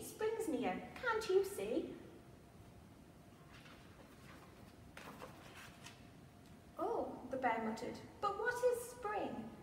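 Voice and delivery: lively picture-book read-aloud; reading to children. A narrator's reading. Museum storyteller reads Little Bear's Spring to children, animated. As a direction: read the rhyme with wide-eyed expression for little ones.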